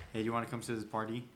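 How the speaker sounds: party as "pardy" in a quick, casual invite; fast question, party said "pardy". Shown as a demonstration. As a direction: toss off party with a D sound. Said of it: "it is a D".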